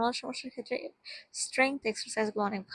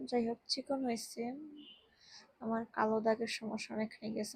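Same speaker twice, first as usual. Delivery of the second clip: ordinary delivery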